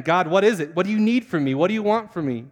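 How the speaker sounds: retold desperate plea to God; pleading prayer. Blocked-in hungry man prays in his office, pleading. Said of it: "and I pray again".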